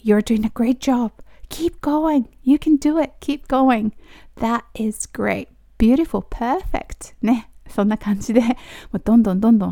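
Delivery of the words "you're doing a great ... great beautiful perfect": enthusiastic encouragement. Shown as a demonstration. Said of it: "熱い感じで言うようにすると".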